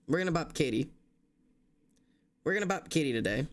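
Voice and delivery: ordinary talk, nothing marked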